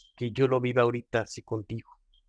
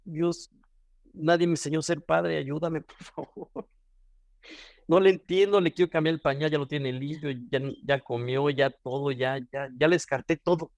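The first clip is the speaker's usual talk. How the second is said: tearful prayer; 2 semitones higher than usual. Retold or imitated. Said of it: "yo lloraba".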